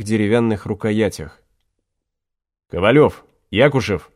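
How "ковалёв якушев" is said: calling out. A narrator's reading. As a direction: call the names out to the men. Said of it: "выкрикнул командир".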